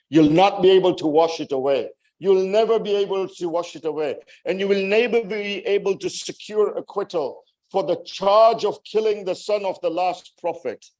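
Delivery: high, rapid, relentless verdict; insistent condemnation. Retold or imitated. Preacher voicing Zainab's verdict on the killers, insistent condemnation. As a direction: drive each retold sentence home without easing.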